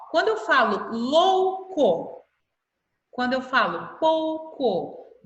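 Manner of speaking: drawn out, slowly, each syllable clear; slow syllable demo. Shown as a demonstration. Teacher to class, slow syllable demo. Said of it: "vejam que elas estão ... na mesma sílaba".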